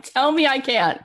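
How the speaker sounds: imitating Serena's fired-up defiance; Serena daring. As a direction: challenge them to say it again. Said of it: "she's like".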